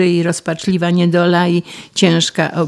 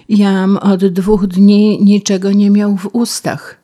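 usual speaking voice

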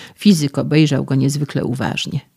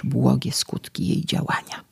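whisper; 6 dB quieter than usual. A narrator's reading.

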